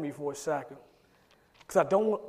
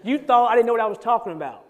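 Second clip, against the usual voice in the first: California way of saying; 5 semitones higher, 8 dB louder, faster than usual. Shown as a demonstration. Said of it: "that's how you would say it".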